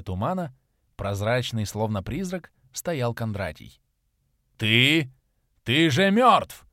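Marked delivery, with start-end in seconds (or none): 4.6-6.7 loud, higher, slow choked cry; choking on hatred; hateful shock. A narrator's reading. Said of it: "прохрипел вождь". (хриплый крик ненависти)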